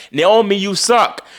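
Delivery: high, slow jeering yell; mock heckler shout. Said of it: "where a heckler shouted".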